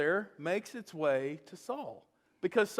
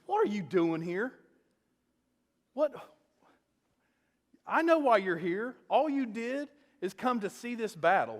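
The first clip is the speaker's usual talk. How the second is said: lightly acted brotherly scolding; mad older brother; 3 semitones higher than usual. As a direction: retell an annoyed brother's accusing rant. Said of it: "he's just, he's mad".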